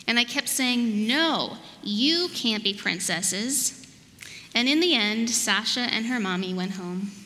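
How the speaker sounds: expressive picture-book narration, drawn-out key words; measured storytime voice with playful emphasis; storybook reading. A narrator's reading. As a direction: read it aloud to little children, unhurried. Reads storybook to children.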